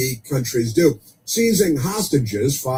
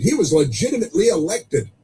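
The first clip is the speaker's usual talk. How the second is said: mocking idiots; 6 semitones higher than usual. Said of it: "we got these idiots on the street".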